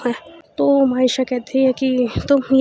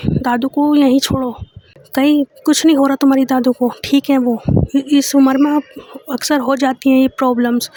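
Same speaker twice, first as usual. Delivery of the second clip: louder, indignant insistence; angry demand; 2 semitones higher, 4 dB louder than usual. Acted. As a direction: selfishly demand she stays. Girlfriend insists, dismisses grandma.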